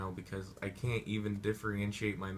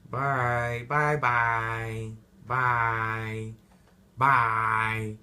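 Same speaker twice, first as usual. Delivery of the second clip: loud sing-song byes; hammed-up cheerful bye bye bye; mock loud goodbyes; 2 semitones higher, 8 dB louder, much slower than usual. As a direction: wave them off loudly. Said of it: "he's like".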